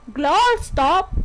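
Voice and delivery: slow, deliberate fake Scottish; mock-Scottish pronunciation demo; Scottish accent attempt. Shown as a demonstration. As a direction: try it slowly with a Scottish swallowed T. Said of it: "you would say".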